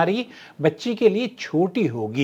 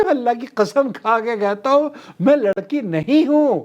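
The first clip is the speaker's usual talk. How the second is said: higher-pitched mock denial; shopkeeper's protest retold; 5 semitones higher than usual. Shopkeeper swearing to the customer he is no girl, mildly mock-indignant. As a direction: lightly act out his sworn objection. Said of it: "اس نے کہا کہ".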